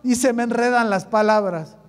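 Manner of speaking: acted plea, loud at the start, then easing; Moisés pleading. Moses begs God over his clumsy tongue, mildly hammed-up pleading. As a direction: open on a big imploring cry, then tail off. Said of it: "Moisés le rogó al Señor".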